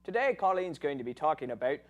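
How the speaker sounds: light put-on Irish lilt; Irish accent. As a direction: say it with an Irish brogue. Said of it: "why we're speaking in Irish accents".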